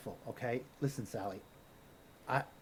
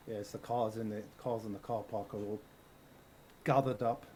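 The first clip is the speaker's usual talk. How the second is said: put-on Irish accent; 4 semitones lower, 6 dB quieter than usual. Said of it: "now you're Irish".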